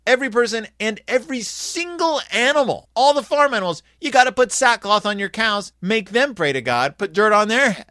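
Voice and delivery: high, loud, excited proclamation; royal decree. Retold or imitated. King decrees sackcloth for people and cows, loud and high. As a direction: bellow the king's orders to the whole city. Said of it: "It's like".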